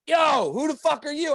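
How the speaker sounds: drawn-out, high-pitched challenge; acted challenge. Guy at the party confronts man at fridge, high challenge. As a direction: call out high and slow as the affronted stranger.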